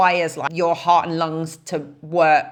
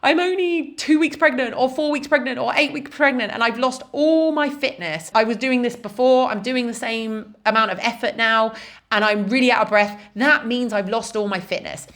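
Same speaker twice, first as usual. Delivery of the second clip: panicked pregnant woman; 5 semitones higher than usual. Retold or imitated. Pregnant woman at spin class panicking about her breath, alarmed high voice. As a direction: voice a woman sure she has lost her fitness, pitched up in alarm. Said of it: "they interpret it as".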